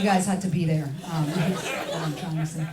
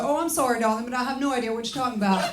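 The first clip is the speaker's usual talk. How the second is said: mock posh brush-off; 3 semitones higher, faster than usual. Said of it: "I just go".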